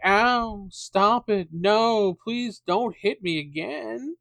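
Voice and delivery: high, hammed-up whimpering pleas; a goblin whining for the attackers to stop; mock pleading goblin. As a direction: beg like a goblin faking pain. Goblins begging while being hit.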